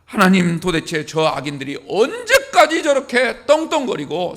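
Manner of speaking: preacher voicing an aggrieved appeal to God; Habakkuk's complaint. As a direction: plead in mild reproach, lifting key words. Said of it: "하나님을 향하여 원망을 늘어놓았습니다". (원망하며 하소연하는 하박국을 흉내 냄)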